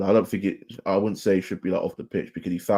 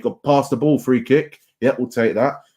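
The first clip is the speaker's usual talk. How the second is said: higher and louder, pleading with the player; urgent fan shout; 5 semitones higher, 6 dB louder than usual. Real, not acted. Fan yelling at his winger on the screen, urgent shout. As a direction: yell at the screen for the pass.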